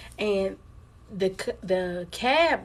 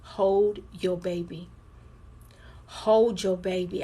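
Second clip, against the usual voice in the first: inner voice; slower than usual. Retold or imitated. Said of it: "in my voice".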